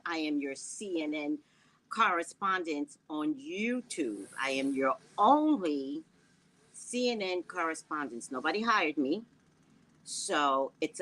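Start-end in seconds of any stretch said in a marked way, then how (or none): 0.1-8.3 news anchor voice. Pretend. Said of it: "did I sound like a news anchor there?".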